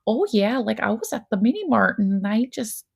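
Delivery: light imitation of a Midwestern Wisconsin accent; lightly put-on Wisconsin accent, casual and chatty. Quoting the TV mom Sherry to her co-host in a mild Wisconsin accent. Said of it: "her accent is, like, so on point".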